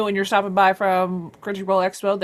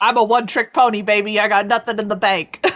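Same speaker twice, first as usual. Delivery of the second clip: comic confession; 3 semitones higher, 5 dB louder than usual. Pretend. Comic boast answering future plans worry.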